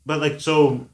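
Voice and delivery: talking with food in mouth; mouth full. Real, not acted. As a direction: say it through a mouthful of nachos. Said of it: "I got some nacho in my mouth here".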